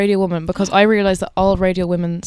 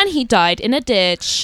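slow, measured mock bulletin; RT newsreader voice; slower than usual. Co-host inventing a grim bulletin, slow newsreader delivery. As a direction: draw it out like a solemn news report. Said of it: "the R T newsreader voice".

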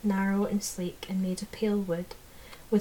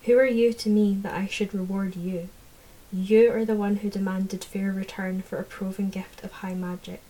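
loud, proud cold rebuke; haughty fairy lord; 3 dB louder than usual. Acted. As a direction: lord it over a mortal.

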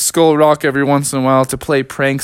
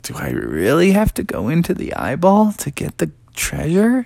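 nervous; 5 semitones higher than usual. Acted. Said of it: "started to get kinda nervous".

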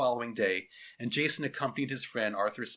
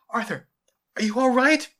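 high, urgent concern; alarmed girl's voice, pitched up; worried; 11 semitones higher, 10 dB louder than usual. Acted. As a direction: check anxiously on a hurt friend. Girl finds her friend hurt.

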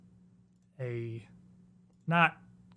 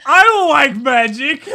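louder, higher, laughing gruff grumble; hard gruff declaration; 10 semitones higher, 14 dB louder, slower than usual. Retold or imitated. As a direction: bark it out like a stubborn warrior. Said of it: "with a hard one".

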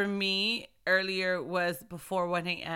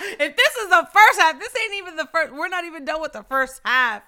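laughing; 9 semitones higher, 10 dB louder than usual. Real, not acted. Laughing at how fast the year goes.

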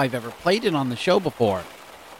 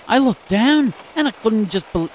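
put-on a clumsy, high, louder stab at an Aussie accent; terrible Australian accent; 5 semitones higher, 4 dB louder than usual. Radio host quoting a dog owner in a bad Australian accent. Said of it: "oh, that's a terrible accent".

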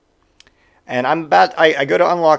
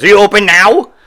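higher and louder, insistent; pushy demand; 7 semitones higher, 9 dB louder than usual. Retold or imitated. Customer storms in as the door opens, loud and pushy. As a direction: push in with the question. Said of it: "He goes".

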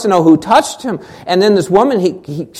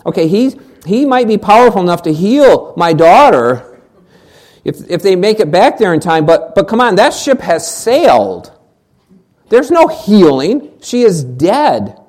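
imagined doubt; 3 dB louder than usual. Retold or imitated. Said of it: "Jairus might have been thinking".

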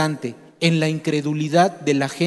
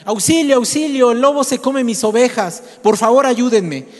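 mock cry for help; 6 semitones higher, 3 dB louder than usual. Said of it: "Volvió a gritar".

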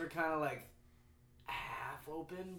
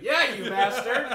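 loud, high, stretched-out shout with laughter; imitation heckle, hammed up; mock late outburst; 6 semitones higher, 12 dB louder, slower than usual. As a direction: burst in late with an exaggerated jab.

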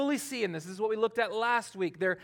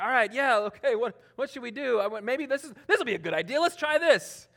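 mock babbling; 4 semitones higher, 3 dB louder than usual. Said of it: "just kinda, like, babble".

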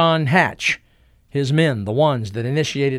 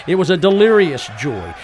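plain reading voice

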